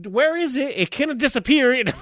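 high-pitched fake puzzlement; playing along. Guilty husband joining the search for the corn, feigned bafflement. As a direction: act mystified, voice lifted. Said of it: "And I'm playing along".

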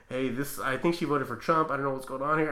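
sarcasm in an even voice; understated mock concern; very sarcastic. Guard reporting to the manager, dryly sarcastic. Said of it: "I'm being very sarcastic".

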